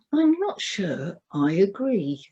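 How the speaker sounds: gently. Retold or imitated. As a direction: say it kindly, easing her fear. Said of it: "says gently to her".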